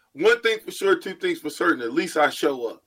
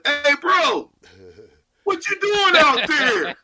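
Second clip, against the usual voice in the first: mock yell; 9 semitones higher, slower than usual. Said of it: "I was yelling".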